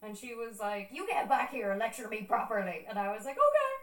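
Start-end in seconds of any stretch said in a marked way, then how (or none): 0.9-2.9 loud mock telling-off; retold bossy command; stern aunt imitation. Aunt ordering speaker back. 3.4-3.7 very high, loud squeaky wail; exaggerated tearful agreement; mock-tearful okay. Mimics own tearful meek reply.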